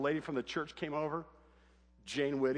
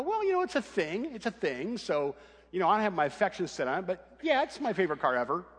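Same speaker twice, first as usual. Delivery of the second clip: much higher, sing-song bashful admission; coy; 4 semitones higher than usual. Retold or imitated. Dad admitting to his daughter he loves his car, coy. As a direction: play it cute and coy about the car. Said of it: "And I go".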